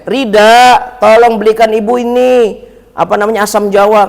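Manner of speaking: mother calling son Rida to run an errand. Retold or imitated. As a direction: call the boy from the next room. Mother calls her son.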